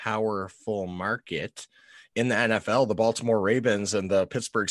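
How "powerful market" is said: slow ironic "powerful market"; air quotes. Shown as a demonstration. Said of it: "put my quotations up".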